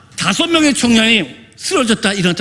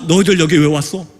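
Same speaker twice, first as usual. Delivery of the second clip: imitated menacing outcry. Possessed woman threatens the visitors in Indonesian, imitated outcry. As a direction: act out a possessed woman, building to a sharp order. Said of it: "막 소리 지르기 시작합니다".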